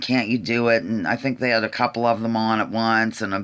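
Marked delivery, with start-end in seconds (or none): 0.0-0.8 breathless, gasping, pleading voice. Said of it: "just gasping for air and".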